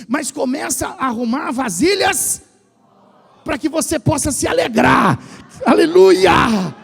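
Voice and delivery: rising from firm to a full shouted Aleluia; building to a shout. Real, not acted. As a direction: preach it up into a cry of praise. Preacher builds to climax. (pregador chamando a igreja, crescendo até gritar Aleluia)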